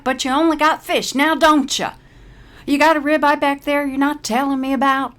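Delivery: high, loud cranky tirade; aggravated outburst. Acted. Paralee snaps at the server, high and loud. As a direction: let the aggravation boil over. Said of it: "Paralee bubbles over with aggravation".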